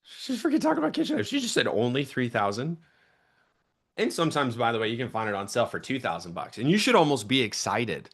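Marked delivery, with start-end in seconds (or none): 0.0-2.8 shocked customer. Retold or imitated. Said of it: "should hear you be like".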